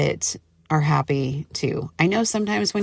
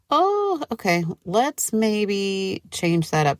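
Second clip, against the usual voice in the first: mock surprise; 4 semitones higher, slower than usual. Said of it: "And I'm like".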